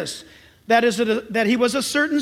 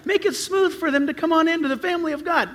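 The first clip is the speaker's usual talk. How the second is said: pleading congregant; 5 semitones higher than usual. Acted. Church member asks pastor to make it easy for a friend, pleading. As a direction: coax the pastor a little, pitched up. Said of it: "You say".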